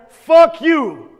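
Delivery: high, loud, fierce yell of defiance; a sharp shouted declaration aimed at the old story; defiant shout. Shown as a demonstration. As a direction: spit it out at the story like you mean it. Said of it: "you will declare".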